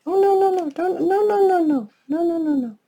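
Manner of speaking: high, rapid pleading no's; frantic no. Real, not acted. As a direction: stop it before it goes wrong. Something going wrong.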